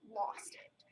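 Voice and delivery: whispered, choked-up aside; tearful whisper. Real, not acted. Talking about April's baby dying, sad tearful whisper. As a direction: hush it as if holding back tears. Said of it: "I'm tearing up right now".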